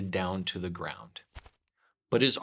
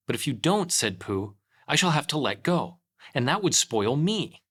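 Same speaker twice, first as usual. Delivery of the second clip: calling down; 5 semitones higher, 4 dB louder than usual. A narrator's reading. Pooh pleading from above.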